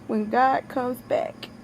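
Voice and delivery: holding back tears. Real, not acted. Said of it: "I'm trying my best not to cry".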